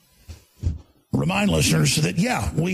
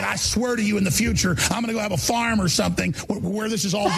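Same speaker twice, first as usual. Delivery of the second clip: shouting rant; 9 semitones higher than usual. Retold or imitated. Retold rant, rising into shouts.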